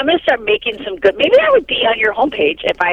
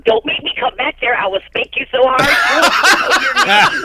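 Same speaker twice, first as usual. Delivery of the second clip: raised-pitch mock threat, slowing at the end; imitated scolding parent; 4 semitones higher than usual. Mom to kids in the back of the car, mock scolding.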